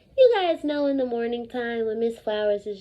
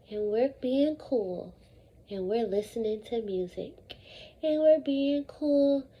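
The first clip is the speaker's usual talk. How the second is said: relaxed, calm; 3 semitones lower, 5 dB quieter than usual. Pretend. Teacher acting out listening to music with earbuds, soft and calm. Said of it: "now we are gonna act it out".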